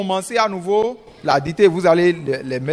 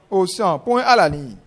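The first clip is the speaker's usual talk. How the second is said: dictating. Shown as a demonstration. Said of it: "je vais lire".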